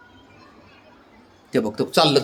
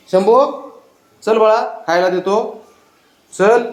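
higher, sing-song coaxing to a pet; coaxing pet talk; 5 semitones higher, slower than usual. Real, not acted. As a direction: sweet-talk the dog into coming to eat. Coaxing pet to come eat.

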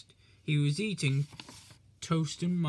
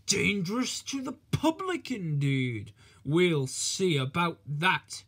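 grim indignation. Acted. Controller indignant at the charge.

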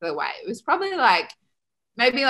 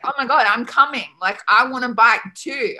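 eager, higher and louder quote; excited; 4 semitones higher, 4 dB louder than usual. Retold or imitated. Teenager begs to join friends buying bikes, excited. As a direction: burst in eagerly, voice lifted.

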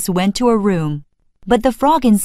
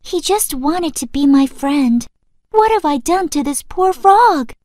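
tearful; 5 semitones higher than usual. Acted. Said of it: "as she cried".

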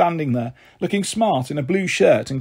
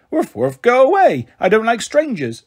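high, loud barking toy-dog voice; hostile dog voice; 7 semitones higher, 3 dB louder than usual. A narrator's reading. Robin showing how Fido talks, high hostile barks. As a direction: bark it as an unfriendly pretend dog. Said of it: "So how does Fido talk?".

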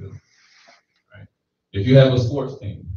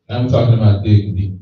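louder, pressing preacher's push; rising fervor; 8 dB louder than usual. Real, not acted. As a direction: build the energy up. Preacher building intensity.

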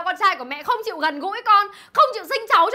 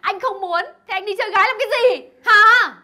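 tearful anger; 3 semitones higher, 5 dB louder than usual. Acted. Betrayed wife confronts husband.

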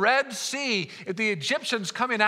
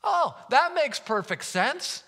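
slow, drawn-out mock approval; sarcastic; 3 semitones higher, slower than usual. Preacher reacts to the Jericho marching plan, sarcastic. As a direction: pretend the absurd plan is perfectly sensible.

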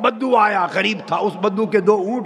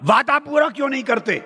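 rude demanding tone; 6 semitones higher than usual. Retold or imitated. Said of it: "बुरे लहजे में मैंने कहा".

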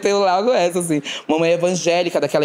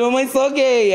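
confissão aguda; 7 semitones higher, slower than usual. Retold or imitated. Filho se revela à mãe.

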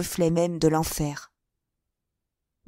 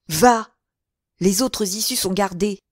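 louder bark of command; shouted order; 4 dB louder than usual. Acted. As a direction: call out after her. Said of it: "cria Malga".

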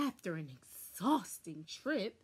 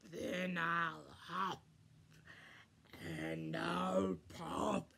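big bad wolf; 2 semitones lower, slower than usual. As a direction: drag it out like a menacing wolf. Wolf voice continues.

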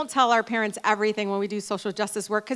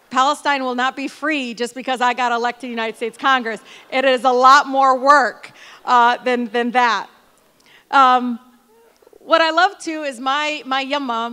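loud, higher, rousing declaration; impassioned rally; 3 semitones higher, 10 dB louder than usual. Real, not acted. To the crowd about Palestine, loud impassioned insistence. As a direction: drive the point home to the room.

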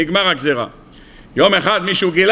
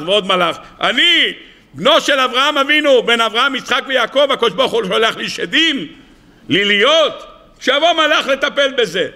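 raised, aggrieved plaint, lightly acted; acted tearful lament; 4 semitones higher than usual. Rabbi bewails being sent demons, mock tearful lament. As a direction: plead high, as a hammed-up wounded complaint. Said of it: "פרץ רבי שמעון בר יוחאי בבכי".

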